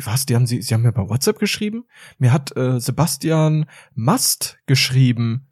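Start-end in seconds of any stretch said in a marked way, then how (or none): 0.0-1.9 fast, a touch lower surprise; surprised lecturer. Retold or imitated. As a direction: rattle it off, surprised. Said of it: "Und der so". (schnell und überrascht)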